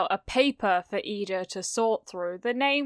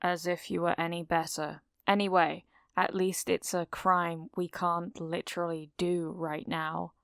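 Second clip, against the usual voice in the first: quiet smug; 2 semitones lower, 6 dB quieter than usual. Acted. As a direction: murmur it with a grin. Shinso smug retort.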